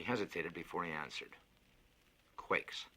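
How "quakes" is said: hushed, hesitant single word; whispered. Acted. Engineer reluctantly admitting the danger, whispered.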